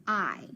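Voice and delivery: "I" said alone as a long vowel; long I sound. Shown as a demonstration. Teacher showing what IGH says, long I sound. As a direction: isolate "I" after a short pause. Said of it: "It just says".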